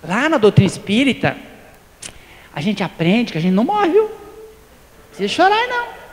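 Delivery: a hammed-up know-it-all comforting; mock consoler pushing doctrine on a mourner; mock preachy consoler. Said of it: "vou chegar lá e falar assim".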